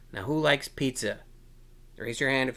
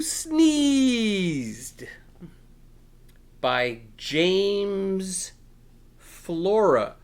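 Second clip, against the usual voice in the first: loud, high announcer reading of the title; loud showy announcement; grand title announcement; 5 semitones higher, 8 dB louder, much slower than usual. Acted. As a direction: boom it out like a showman. Announcing book title, author.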